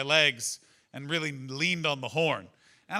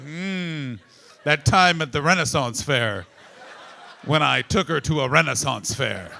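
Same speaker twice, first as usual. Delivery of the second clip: husband's inner voice; 2 semitones lower, 6 dB louder, slower than usual. Retold or imitated. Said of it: "he's going".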